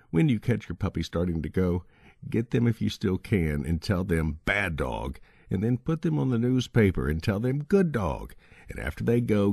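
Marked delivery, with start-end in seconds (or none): 4.4-5.2 firm low scolding; stern. Shown as a demonstration. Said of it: "Use a stern voice". 7.6-8.3 higher, bright praise; praising. Shown as a demonstration. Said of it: "Give them praise".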